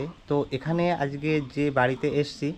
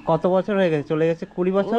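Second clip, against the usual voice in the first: to someone hard of hearing; 3 semitones higher, 5 dB louder than usual. Real, not acted. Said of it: "ঠাকুমা কানে একটু কম শোনে".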